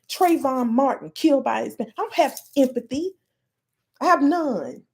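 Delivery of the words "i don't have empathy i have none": real rising anger, pitched up; indignant, higher than usual; getting mad. Real, not acted. Activist rejecting empathy for other races, getting mad. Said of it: "I'm getting mad".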